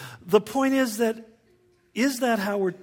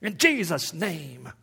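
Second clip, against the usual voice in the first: louder, slow, hammed-up vengeful prayer; mock fiery prayer; 4 semitones higher, 6 dB louder, slower than usual. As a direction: parody a preacher calling down fire, slowly. Mocking vengeful prayers from the pulpit.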